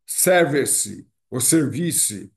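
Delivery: SERVICE with a Brazilian final ee vowel; Portuguese-style SERVICE. Shown as a demonstration. Teacher shows students the Brazilian habit, Portuguese-style SERVICE. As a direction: say SERVICE in three syllables, ending in a sounded vowel. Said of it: "aportuguesar a palavra".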